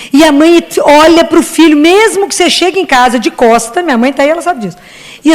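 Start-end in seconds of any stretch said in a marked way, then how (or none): none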